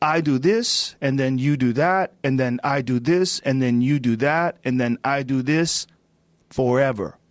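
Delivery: put-on heavily laid-on Brazilian accent. Retelling how a jujitsu master explained jujitsu: Helio Gracie impression, thick Brazilian accent. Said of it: "he's got this thick Brazilian accent".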